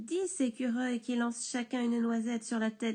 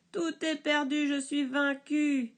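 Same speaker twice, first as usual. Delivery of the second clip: 1 désespoir; 5 semitones higher, 4 dB louder than usual. Acted. Le bûcheron vaincu.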